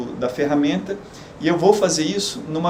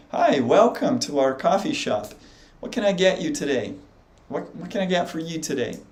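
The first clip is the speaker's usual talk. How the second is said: American speaker. Shown as a demonstration. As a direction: say it like a native American barista. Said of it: "você ouviria um americano falar assim".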